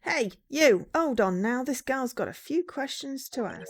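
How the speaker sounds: loud hail in character; game character hollering; calling out. Acted. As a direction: shout across to stop him. Shouting at Phoenix in character.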